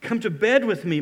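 demanding. Acted. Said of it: "and demanded".

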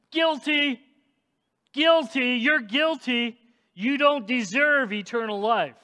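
loud, high prosecutor's cry, easing toward the end; accusing shout. Retold or imitated. Satan shouting guilty in heaven's courtroom, loud high accusation. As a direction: condemn them over and over. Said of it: "Satan loves to shout".

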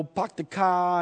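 imitated Northern accent with dropped r's; Northern accent, park and car without r; mock Northern accent. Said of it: "with their New York accent".

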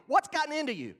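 loud, high accusing challenge; hammed-up scolding crowd; accusing Jews. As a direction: confront Peter with indignant disbelief. Jews confronting Peter, accusing.

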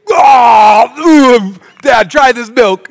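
high shriek then a slow offer to Dad; recoil, then pass it on to Dad; sister's cry of disgust. Retold or imitated. Sister passing the milk to Dad, shrieking. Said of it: "your sister's like".

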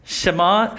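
Shema said shuh-MAH, stress on the end; Hebrew word pronunciation. Shown as a demonstration. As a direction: teach the word Shema, rising. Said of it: "This is called the Shema".

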